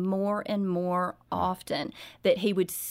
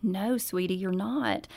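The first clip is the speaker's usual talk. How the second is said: gentle mother. Retold or imitated. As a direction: coax the child gently, almost whispering. Mother gently corrects daughter.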